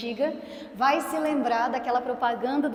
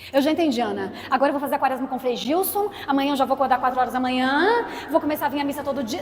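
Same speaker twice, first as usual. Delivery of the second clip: overeager listener; 5 dB louder, faster than usual. Pretend. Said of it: "Não faz, calma".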